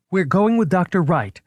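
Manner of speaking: high stubborn answer; defiant reply. A narrator's reading. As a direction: refuse him firmly. Director defying the cop.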